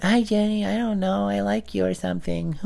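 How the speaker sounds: high, small put-on voice; awkward young suitor. Kid on the phone to Jenny, awkward high voice. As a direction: squeak out a shy confession.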